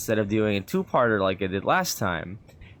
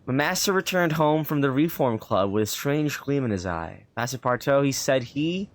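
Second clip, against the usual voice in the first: measured storybook reading voice; lightly performed narration; story narration. A narrator's reading. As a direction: read it like an old travel novel. Reads the game's story text.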